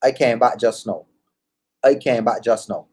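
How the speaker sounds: relaxed Caribbean lilt; Caribbean accent, said twice. Shown as a demonstration. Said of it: "I'm gonna say it twice".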